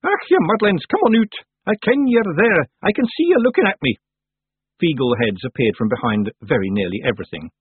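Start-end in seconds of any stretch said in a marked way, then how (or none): 0.0-4.0 high, loud scolding call; loud, high summons in Scots dialect; raised voice. A narrator's reading. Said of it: "and raised her voice".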